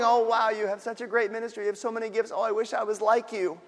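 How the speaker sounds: mock admirer. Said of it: "people recognizing and going".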